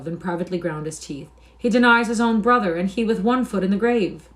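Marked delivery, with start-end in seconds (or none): 1.6-4.3 feigned dismay. Pretend. Hugo feigns hurt.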